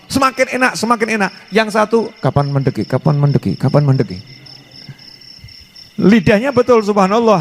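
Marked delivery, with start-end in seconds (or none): 2.2-4.2 low, grumbling when-will-it-end; mock impatience. Preacher acting a bored worshipper waiting for the end, grumbling. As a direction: sound fed up and restless.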